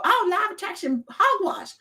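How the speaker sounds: high, mocking scoff; scoffing skeptic. Skeptics dismissing law of attraction, a high mocking scoff. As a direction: sneer it off. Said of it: "Some people go".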